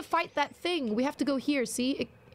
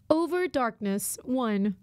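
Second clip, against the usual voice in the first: lightly put-on robot reading; 2 semitones lower, slower than usual. Streamer reading chat's text for fun, light robot voice. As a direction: read it like a mild robot. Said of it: "in my robot voice".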